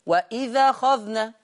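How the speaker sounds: وإذ أخذنا: الذال مفتوحة بلا همزة، وإذَخذنا، ببطء; انقل فتحة الهمزة إلى ذال وإذ; نقل حركة الهمزة. Shown as a demonstration. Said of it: "بيشيل الهمزة". (وإذ أخذنا بالنقل)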